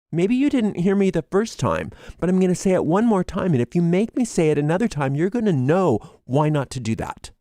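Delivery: warning someone who keeps pushing; heated warning. Pretend. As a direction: threaten with rising heat. Continuing the angry stand.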